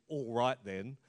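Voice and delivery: low, mildly huffy concession; grudging acceptance. Acted. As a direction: give in with a touch of huff. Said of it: "as in".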